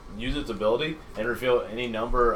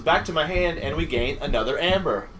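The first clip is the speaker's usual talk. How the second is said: laughing while talking; 4 semitones higher, 5 dB louder than usual. Real, not acted. Laughing while reading card.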